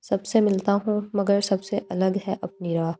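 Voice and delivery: slow, measured couplet recital; poem recital. Acted. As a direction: savour each line of the verse slowly. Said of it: "بقول شاعر شمس زبیری کے".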